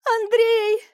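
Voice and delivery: very high, loud scream of a name; frightened scream. A narrator's reading. Wife in labour in the helicopter, screaming. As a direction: scream for him in panic. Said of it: "орала в кузове вертолёта испуганная Марийка".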